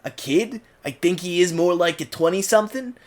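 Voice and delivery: American Cockney, New York style; New Yorker accent. Shown as a demonstration. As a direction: talk like a Brooklyn New Yorker. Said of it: "kind of New Yorker accent".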